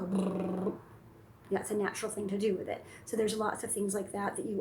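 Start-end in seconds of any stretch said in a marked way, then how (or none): 0.0-0.7 car brrrr. Pretend. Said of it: "pick up a car".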